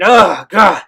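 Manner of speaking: beast growl. Pretend. Voicing struggling Nine Tails.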